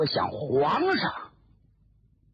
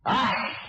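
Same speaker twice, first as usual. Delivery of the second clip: a drawn-out mournful sigh; long sigh; 5 semitones higher than usual. Acted. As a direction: sigh heavily over the nation. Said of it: "长叹一声".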